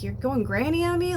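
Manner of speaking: high mock-incredulous tease at mom; teasing. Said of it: "teasing her".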